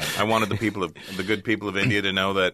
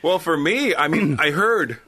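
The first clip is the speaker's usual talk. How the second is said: yawning; 10 semitones higher, 6 dB louder, slower than usual. Real, not acted. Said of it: "Sorry for yawning".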